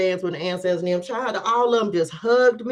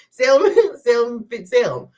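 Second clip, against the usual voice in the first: louder laughing count; higher, laughing repeat; 4 semitones higher, 5 dB louder than usual. Real, not acted. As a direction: count them out through laughter.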